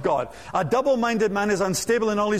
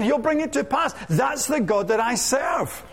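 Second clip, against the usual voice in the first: preaching shout; 3 semitones higher than usual. Real, not acted. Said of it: "Someone get remotely excited here".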